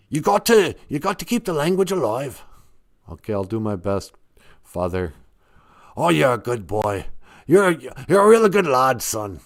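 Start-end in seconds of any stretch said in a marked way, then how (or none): 0.1-2.4 higher, far-off regal English lady voice; Queen of England voice. Acted. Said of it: "he sounds like a pirate". 6.0-9.4 Queen of England voice. Acted. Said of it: "he sounds like a pirate".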